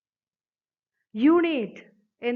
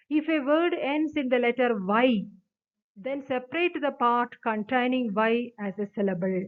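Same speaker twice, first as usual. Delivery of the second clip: each word of the definition read out very slowly; slow rule reading; much slower than usual. Acted. Teacher reads the definition to students, slow dictation. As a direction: dictate it to the class.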